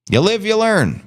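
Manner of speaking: high, lively first take; bright quick line. Shown as a demonstration. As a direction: toss it off brightly. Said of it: "Bitcoin Poet".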